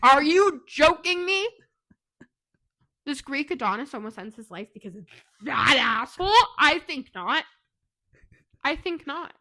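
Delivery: loud, worked-up protest; half-joking outraged yelling, punching out words; indignant yelling. Real, not acted. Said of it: "She's yelling at me now".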